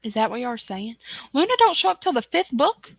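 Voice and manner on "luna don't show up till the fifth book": mock disbelief. Mock disbelief at chat news.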